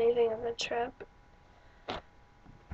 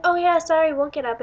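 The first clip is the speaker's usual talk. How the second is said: high, louder mock apology; imitated hasty apology; 6 semitones higher, 6 dB louder than usual. Friends caught sitting on his steps, imitated high apology. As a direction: act out an apologetic yelp, pitched up.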